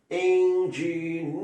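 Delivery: "Engineer" slow, stress on the last syllable; slow English model. Shown as a demonstration. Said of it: "Como é que é engenheiro em inglês?". ("Engineer" devagar, tônica no final)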